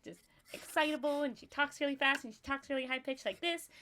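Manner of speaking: perky, high, fast chatter; bubbly customer service voice. Shown as a demonstration. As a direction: chirp it out like an eager clerk. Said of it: "I think she would just talk like this".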